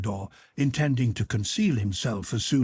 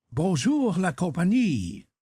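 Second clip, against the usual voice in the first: gaily; 6 semitones higher than usual. A narrator's reading. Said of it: "said he gaily".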